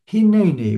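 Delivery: "Hineni" pronounced carefully in Hebrew; Hebrew word. Shown as a demonstration. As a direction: give "Hineni" its Hebrew vowels, hee-nay-nee. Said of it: "which means something like".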